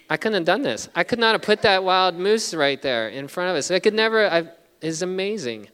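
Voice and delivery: rising to an amazed peak; awed excitement. Real, not acted. Awed at God's answer.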